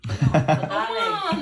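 laughing. Real, not acted. Tipsy mother laughing.

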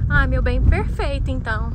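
tinny speakerphone call. Acted. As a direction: voice through a phone speaker. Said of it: "colocar no Viva Voz".

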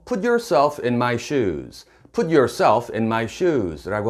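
slow, clearly spaced English; teacher modelling each word slowly; slow clear model phrase. Shown as a demonstration. English teacher modelling the phrase slowly for learners. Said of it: "라고 하는데요".

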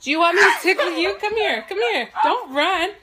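laughing, fast teasing; playful threat. Real, not acted. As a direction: chase them down playfully. Mom chasing to tickle.

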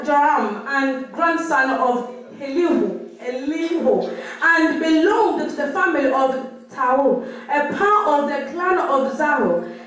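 measured, deliberate reading aloud; scripture reading. Acted. Sister reads the passage to the congregation, deliberate scripture reading. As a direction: read out the Bible passage phrase by phrase.

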